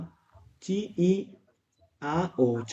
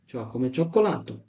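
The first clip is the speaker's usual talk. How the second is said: slow drill; 2 semitones lower, much slower than usual. Shown as a demonstration. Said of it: "teacher drills Italian word".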